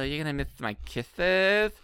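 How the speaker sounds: mock baby-talk with lisped s sounds; lisping lovey-dovey tease; mock cute banter. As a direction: imitate sickly-cute couple banter. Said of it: "their cute banter".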